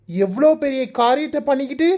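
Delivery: rising, bitter accusation; hurt, accusing retort. Acted. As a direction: throw the apology back at him. Niece confronts her uncle. (மாமாவிடம் கோபமான குற்றச்சாட்டு)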